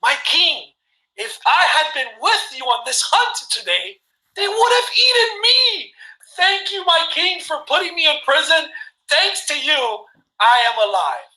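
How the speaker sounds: high, near-crying, shouted gratitude; grateful counselor. Retold or imitated. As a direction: counselor thanking the king for saving him, voice breaking upward. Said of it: "He goes".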